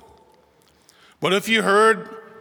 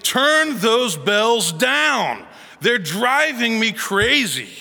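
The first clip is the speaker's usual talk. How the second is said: mildly raised, slow, drawn-out mock yell; retold angry yell; 4 semitones higher, much slower than usual. Angry neighbour phoning the church volunteer about the bells, retold yelling. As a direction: imitate an irate caller, stretching out each word. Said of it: "he was yelling into the phone".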